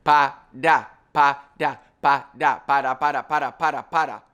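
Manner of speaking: pa da repeated, blending into para; pa da drill. Shown as a demonstration. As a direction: drill pa da until it becomes para. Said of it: "then say da".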